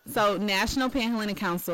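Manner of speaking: council name broken down for the listener. Real, not acted. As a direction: spell it out at a measured pace. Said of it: "say that a little slower".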